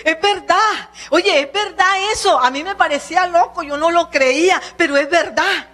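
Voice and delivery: healed man overjoyed at being cured; happy. Pretend. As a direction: marvel that it really worked, gladly. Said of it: "Y entonces feliz".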